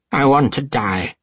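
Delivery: high, loud anguished cry; despairing old man weeping. A narrator's reading. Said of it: "The old man cried too".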